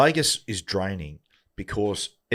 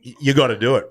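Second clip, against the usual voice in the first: higher, drawn-out groaning acceptance; retold reluctance; 6 semitones higher, 5 dB louder than usual. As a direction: give in with a long mock groan. Retold reluctant agreement to the request.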